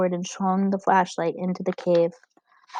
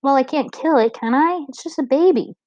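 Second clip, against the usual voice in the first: upset pleading; 6 semitones higher, 4 dB louder than usual. A narrator's reading. Gregor pleading.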